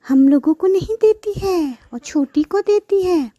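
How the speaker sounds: jealous sister complaining about the buffalo; spiteful sister. Acted. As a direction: grumble and rush ahead. Sisters plan to beat buffalo.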